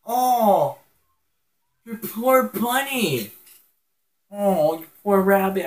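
high, loud mock sympathy; sad cry. Real, not acted. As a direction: wail over the dead bunny. Pet dies in game.

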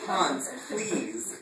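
a hint of desperate pleading; lightly voiced pleading partner; desperate plea. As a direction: beg him to stop. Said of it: "Rupert pleaded desperately".

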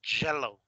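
YELLOW said as "jello"; JELLO, consonant onset; hard J. Shown as a demonstration. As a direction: model JELLO with an English J. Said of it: "es gelatina".

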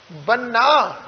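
ਬੰਨਾ leaned on, with a half h after the n; pressed ਬੰਨਾ. Shown as a demonstration. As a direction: press the nn of ਬੰਨਾ into a breath of h, falling. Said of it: "ਇਹਨੂੰ ਥੋੜ੍ਹਾ ਜਿਹਾ ਦਬਾ ਦੇ ਕੇ". (ਬੰਨਾ ਥੋੜ੍ਹਾ ਦਬਾ ਕੇ, ਅੱਧੇ ਹਾਹੇ ਨਾਲ)

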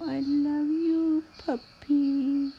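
slow, loving coo; drawn out with affection; tender. Acted. Cooing to a puppy.

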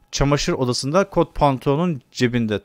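"Çamaşır odasında kot pantolonun cebinde" said slowly, leaning on "kot"; slow, deliberate repeat with stress on "kot". Shown as a demonstration. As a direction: spell out each word slowly to take it in. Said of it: "Muhtemelen her zamanki gibi".

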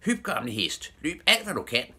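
high, urging shout. A narrator's reading. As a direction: spur the old horse on. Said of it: "greb han tøjlerne og råbte".

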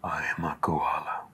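whispered creature voice; breathy little monster whisper; koala monster voice. Pretend. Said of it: "Koala has monster voices".

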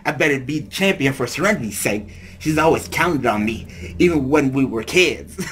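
weak attempt at a Brooklyn accent; half-hearted Brooklyn tough-guy accent. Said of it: "I don't think I can do the Brooklyn accent".

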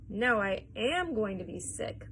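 slow, with "am" leaned on hard; emphatic yell, AM stressed. A narrator's reading. Missus T V warning Mister Wonka, slow emphatic "am". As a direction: declare it slowly, hitting "am". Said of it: "yelled Missus T V".

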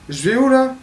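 panicked, high and loud; scared horror game streamer. Real, not acted. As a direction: panic in the dark. Lost in the dark, scared. (panique dans le noir)

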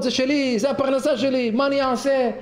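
mock crying shepherd. Shepherd begs after losing his sheep, mock tearful wail. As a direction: cry out over the lost flock, hammed-up. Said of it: "התחיל לבכות".

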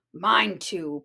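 a mild low growl. Acted. Papa Bear about his headphones, mild growl. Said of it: "Papa growled".

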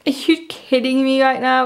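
can't believe it again; disbelieving. Real, not acted. Fan asks the card if it's kidding, disbelieving. Another Asha pull.

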